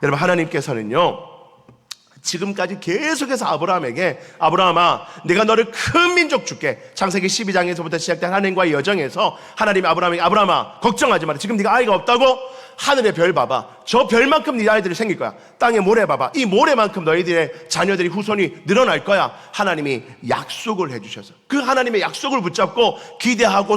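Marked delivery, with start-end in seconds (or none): 4.4-6.8 louder, raised fatherly promise; God's promise. Acted. God promising Abraham a great nation, grand voice. 10.2-19.3 loud, raised fatherly encouragement; God reassuring. Acted. God reassuring childless Abraham, loud grand encouragement.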